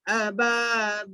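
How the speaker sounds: अबाबील with baa and beel stretched; drawn-out long vowels. Shown as a demonstration. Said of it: "खींच के पढ़ना है".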